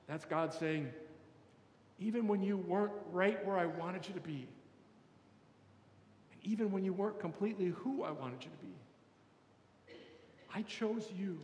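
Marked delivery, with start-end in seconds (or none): 2.0-11.4 tender reassurance. Acted. Voices God reassuring the imperfect listener.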